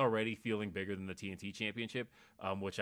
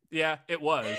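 higher, louder Tyson impression in a far-off voice; Mike Tyson impression; 7 semitones higher, 10 dB louder than usual. Cohost jokes at his Mike Tyson impersonation. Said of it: "Your Mike Tyson impersonation".

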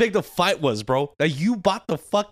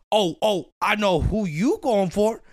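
teasing imitation; 5 semitones higher, 3 dB louder, slower than usual. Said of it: "I reversed the table".

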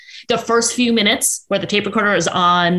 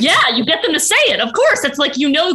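laughing; 8 semitones higher, 3 dB louder than usual. Real, not acted. Laughing at gold-coming interview moment.

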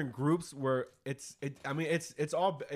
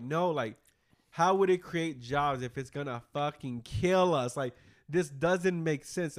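slow, emphatic mock protest, a little raised; retold objection; 4 dB louder, slower than usual. Host voicing people against the meteor plan, emphatic protest. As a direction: imitate exasperated objectors, drawing the words out. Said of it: "But people are like".

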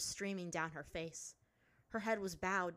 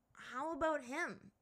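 put-on young boy voice; 8 semitones higher, slower than usual. A narrator's reading. Aang voiced in story.

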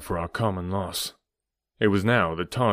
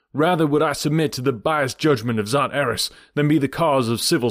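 hero's address; 4 semitones higher, 3 dB louder than usual. Acted. Hero addresses crowd.

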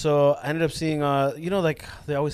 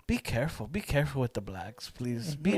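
put-on thick Hispanic accent; 3 dB quieter than usual. Old lady passenger warning her driver, Hispanic accent. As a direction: plead softly in a Hispanic accent. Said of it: "A thick ass accent".

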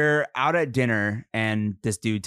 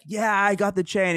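retold bro voice; 8 semitones higher than usual. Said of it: "gets back and he's like".

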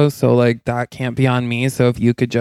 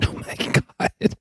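kind gentle laugh; 6 dB quieter than usual. Real, not acted. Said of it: "I'm not laughing at you".

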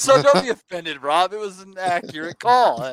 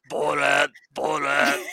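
Borat impression; 6 semitones lower, slower than usual. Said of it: "it made me think of Borat".

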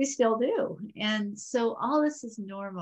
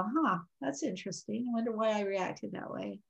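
curious, soft; 7 dB quieter than usual. Shown as a demonstration. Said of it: "step back and go".

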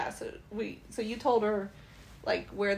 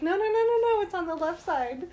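quick, loud, higher protest; mock alarmed no, no, no; insistent no; 6 semitones higher, 3 dB louder than usual. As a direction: stop him, urgently correcting the side. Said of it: "and I was like".

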